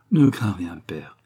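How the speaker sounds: a touch of tender warmth, father reassured; tender exclamation. Acted. Son comforts his foster father, lightly tender exclamation. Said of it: "s'écria l'enfant avec tendresse".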